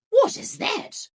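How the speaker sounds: high, loud startled question; surprised dad. A narrator's reading.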